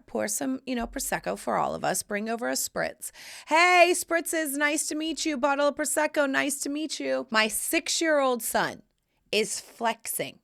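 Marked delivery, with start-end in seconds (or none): 3.5-7.2 high-pitched, bustling hostess hello; retold gushy greeting. Neighbor bringing Prosecco to the visitor, mock-gushy greeting. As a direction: greet brightly, acting out the fluster.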